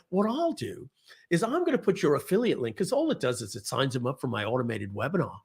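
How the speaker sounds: terrible mock Australian accent; lightly hammed-up Australian salesman; Glenn Ledwell. Glenn offering an affiliate link, badly faked Australian accent. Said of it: "Terrible accent, I'm sorry".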